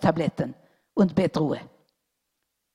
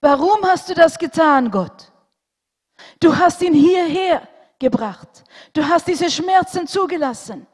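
much higher, louder desperate outcry; anguished shouting; 12 semitones higher, 11 dB louder than usual. A narrator's reading. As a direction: hurl the accusation at God. Surgeon rails against God.

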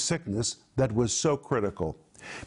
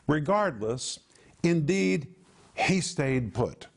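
slow emphatic translation; slower than usual. Shown as a demonstration. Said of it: "and listen carefully to this".

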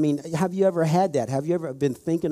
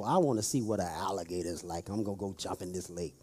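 mocking a fool; 8 semitones lower, 9 dB quieter, faster than usual. Mocking a foolish tourist.

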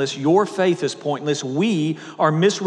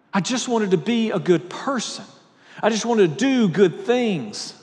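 desperate pleading; 6 semitones higher than usual. Retold or imitated. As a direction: plead as if begging to be believed. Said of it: "he kept saying".

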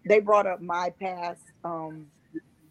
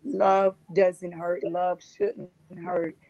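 slow slogan; much slower than usual. Shown as a demonstration. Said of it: "one of my slogans".

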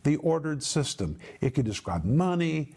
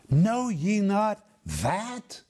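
preacher quoting James; 5 semitones higher, much slower than usual. Retold or imitated. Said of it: "He says".

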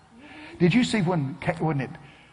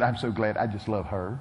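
soft, low quoted voice; imitated evangelist; 6 semitones lower, 5 dB quieter than usual. Preacher corrects the evangelist's quote, softly imitated. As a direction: murmur the evangelist's line low. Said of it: "No, no, he said".

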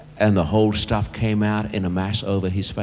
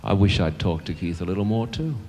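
soft, sombre admission in his own voice; quiet regret; 5 dB quieter than usual. Real, not acted. Preacher confessing to his congregation, quiet regret. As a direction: admit it softly, at your natural pitch.

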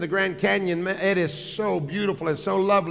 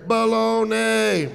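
echo from behind; 3 semitones higher, slower than usual. Retold or imitated. Wife hears it behind her, lightly drawn-out echo reply. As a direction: draw it out like an answering echo. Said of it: "she hears behind her".

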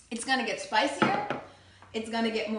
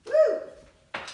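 high, loud woo; excited whoop; 13 semitones higher, 6 dB louder than usual. Real, not acted. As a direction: cheer as the spice goes in. Adding spices excitedly.

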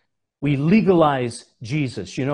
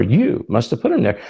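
accusing husband; 3 semitones lower, 3 dB louder than usual. Retold or imitated. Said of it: "He's talking to her".

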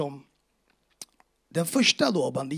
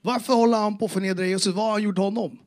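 rising, louder indignant outburst; heated retold protest; got really mad; 6 semitones higher, 7 dB louder than usual. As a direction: let the anger at the mocker boil up. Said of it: "jag blev lack på riktigt".

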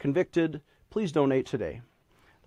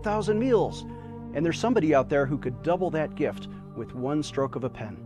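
charity appeal. Acted. Fundraising appeal over music.

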